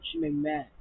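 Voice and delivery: breathy whisper of frustration; voiceless whisper, real annoyance. Real, not acted. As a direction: whisper it through clenched frustration.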